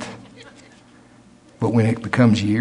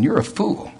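accusing inner voice; 4 semitones higher than usual. Acted. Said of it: "and it's going".

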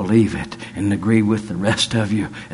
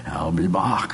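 the promise fading away, whispered; whispered echo; 4 semitones lower than usual. Retold or imitated. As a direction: repeat it in a breathy whisper.

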